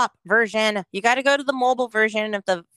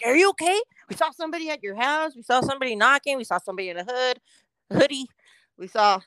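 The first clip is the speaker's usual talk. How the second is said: fast, breathless worried chatter; fussing neighbours; 2 semitones higher, faster than usual. Retold or imitated. Neighbours rushing to report a stranger, fast and worried. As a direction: rattle it off like nosy neighbours.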